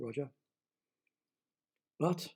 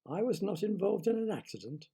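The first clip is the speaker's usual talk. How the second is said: higher, incredulous echo; disbelieving; 6 semitones higher than usual. Acted. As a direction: repeat it in disbelief. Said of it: "Roger repeated disbelievingly".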